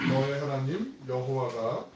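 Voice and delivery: slow, drawn-out cue for the congregation to join; slow lead-in reading. Shown as a demonstration. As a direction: read slowly so everyone can come in together. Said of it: "시작".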